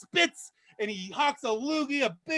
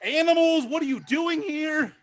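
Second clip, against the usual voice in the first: curt maitre d'; 4 semitones higher, 4 dB louder than usual. Acted. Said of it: "The maitre d' says".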